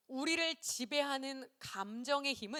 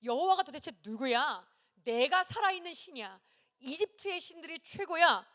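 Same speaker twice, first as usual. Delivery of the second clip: louder, higher indignant boast; emotional, arrogant Pharaoh; 3 semitones higher, 5 dB louder than usual. Acted. Pharaoh scorning the Lord as his rival, arrogant and emotional. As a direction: assert your own supremacy as Pharaoh. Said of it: "아주 감정적인 거예요".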